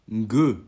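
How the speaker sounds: "Ngue" with the ng of mango; ng sound. Shown as a demonstration. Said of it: "comme dans mango". (« Ngue » comme dans mango, bien détaché)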